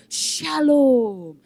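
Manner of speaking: gentle smiling farewell. Acted. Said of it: "dia kembali lagi senyum".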